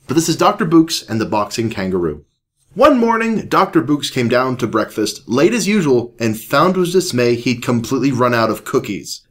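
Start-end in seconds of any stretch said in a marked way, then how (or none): 2.7-9.2 animated read-aloud voice; story narration. A narrator's reading. Reads a children's story aloud.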